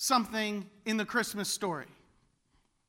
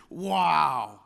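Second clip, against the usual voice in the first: wow; 6 semitones lower, 5 dB louder than usual. Shown as a demonstration. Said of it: "That's a form of worship".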